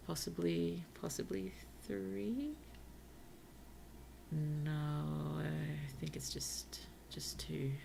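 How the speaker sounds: muttered whisper. Real, not acted. Muttering while counting.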